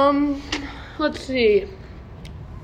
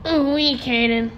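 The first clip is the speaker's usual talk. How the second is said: Morty impression; 3 semitones higher than usual. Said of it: "it's more like".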